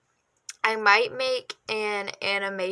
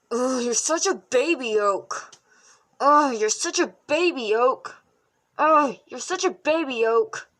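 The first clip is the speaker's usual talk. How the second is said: bratty teasing; 3 semitones higher, 4 dB louder than usual. Pretend. Voice acting a sibling insult.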